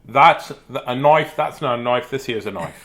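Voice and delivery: lightly imitated Australian catchphrase; mock-Australian accent. Showing an Aussie viewer all he knows, mock-Australian accent. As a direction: have a go at an Australian movie line. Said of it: "That's all I know for Australia".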